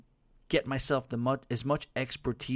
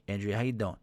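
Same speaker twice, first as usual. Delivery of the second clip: put-on lower, joking New York accent; mock New York accent; 4 semitones lower, faster than usual. Host teasing listener about his accent, mock New York accent. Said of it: "I really try to temper my accent".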